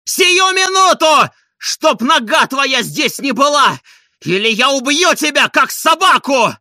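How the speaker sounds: trembling furious shout; shaking with rage. A narrator's reading. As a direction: throw him out in fury. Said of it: "трясясь от ярости".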